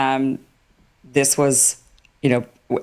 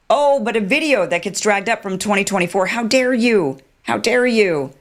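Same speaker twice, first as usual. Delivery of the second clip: higher mock indignation, how dare you; sarcastic imitation of offended officials; mock outrage; 5 semitones higher than usual. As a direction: play the wounded accuser with scorn. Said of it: "the Israelis say".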